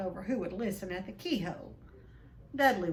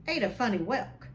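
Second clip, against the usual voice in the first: blustering uncle; 3 semitones higher, 5 dB louder than usual. Acted. Vernon voiced in read story.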